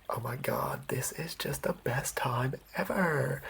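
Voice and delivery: mild Valley Girl impression. Shown as a demonstration. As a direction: toss off a hint of a gushing Valley Girl. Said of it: "envision their accent being sort of like Valley Girl".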